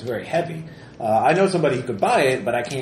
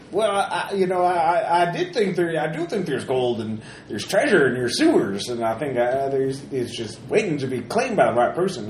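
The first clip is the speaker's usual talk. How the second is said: gruff mountain man; 3 semitones higher than usual. Acted. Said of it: "the prospector, he tells you for free".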